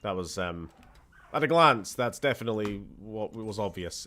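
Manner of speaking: dry sarcastic agreement. Real, not acted. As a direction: say it with heavy sarcasm. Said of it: "I'm being very sarcastic".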